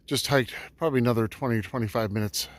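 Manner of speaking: winded after a hike; breathing hard between words. Real, not acted. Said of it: "So I'm a bit out of breath".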